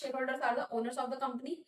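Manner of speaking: slow, word by word, for notes; slow dictation. Shown as a demonstration. Teacher to class, slowly dictating a definition. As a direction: spell it out slowly so students can write.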